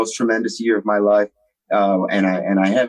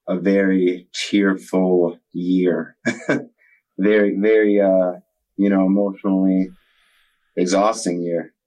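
slow, tearful and choked up; fighting back tears as he speaks; holding back tears; 2 semitones lower than usual. Real, not acted. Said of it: "so I'm trying not to cry".

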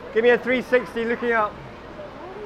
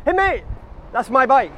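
shout; 4 semitones higher than usual. Retold or imitated. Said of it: "I shout".

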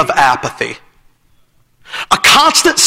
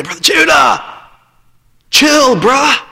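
put-on lazy teen voice; 2 semitones higher, slower than usual. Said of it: "he'd say".

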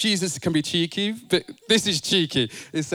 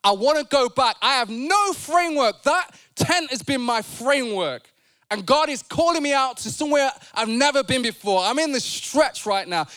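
anxious pleading; 6 semitones higher than usual. Acted. Preacher acting out pleading with God.

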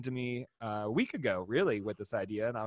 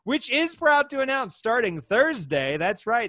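sponsor plug; 4 semitones higher, 4 dB louder than usual. Acted. Reads out the brewery sponsor.

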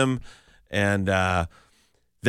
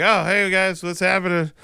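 high, airy casual greeting; imitating a too-casual hello to the cops; feigned innocence; 8 semitones higher than usual. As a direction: act caught but play it innocent. Feigned casual greeting to campus police.

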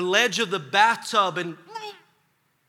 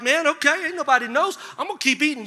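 preacher mocking his own snacking; mock self; 6 semitones higher, faster than usual. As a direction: play your careless self.

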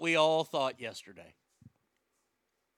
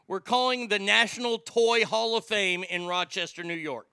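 loud announcement; 4 semitones higher, 5 dB louder than usual. Acted. Big announcement of the call.

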